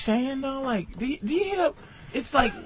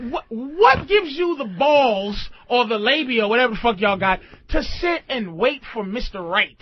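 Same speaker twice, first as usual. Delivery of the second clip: ranting challenge. Retold or imitated. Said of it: "You, you go".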